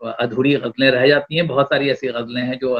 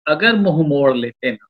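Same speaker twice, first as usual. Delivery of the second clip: romantic shayari. Acted. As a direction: draw out each line of the couplet. Poet recites a love couplet.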